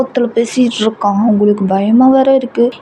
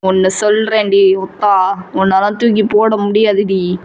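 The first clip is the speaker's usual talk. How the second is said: mild menace in a lowered voice; cold anger; 3 semitones lower than usual. Acted. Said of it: "ரொம்ப கோவமாவே, ரொம்ப கோல்டாவே". (குளிர்ந்த கோபத்துடன் மிரட்டும் காதலன்)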